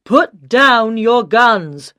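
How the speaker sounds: slow, loud drawn-out order; commanding shout. Acted. Police officer orders the terrorists, slow loud command. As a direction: bark each word out to be obeyed. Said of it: "someone shouted".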